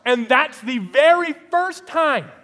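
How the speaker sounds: real amused laughter; laughing. Real, not acted. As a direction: laugh through it in disbelief. Laughing at the man's reply.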